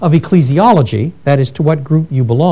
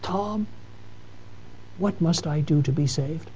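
put-on weak old voice; 13 dB quieter than usual. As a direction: barely voice it, like an old woman on her deathbed. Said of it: "she looks you in the face and she says".

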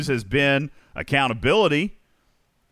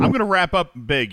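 normal talking voice

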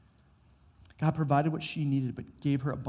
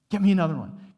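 urgent, louder call for more jars; excited call; 3 semitones higher, 6 dB louder, faster than usual. Acted. Widow urging her sons to fetch jars, eager and loud.

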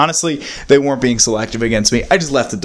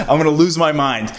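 laughing exasperation; 4 semitones higher than usual. Retold or imitated. Laughing at his own frustration.

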